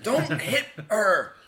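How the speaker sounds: slow, high, loud warning; protective shout. Acted. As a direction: punch out each word separately. Player warns in character.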